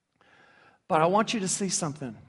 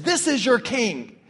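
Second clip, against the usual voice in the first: sarcastic; 4 semitones higher than usual. Acted. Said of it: "He meant it sarcastically".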